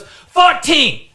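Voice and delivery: high, loud drawn-out Asian-accent imitation; mock Asian-accented customer at full volume; thick mock Asian accent. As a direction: yell the haggle in a hammed-up Asian accent. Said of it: "she had a very thick, like, an Asian type thing".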